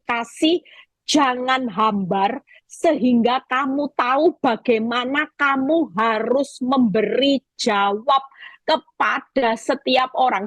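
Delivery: slow, deliberate verse reading; measured, emphatic recitation; scripture reading. A narrator's reading. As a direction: read the verse out slowly, phrase by phrase.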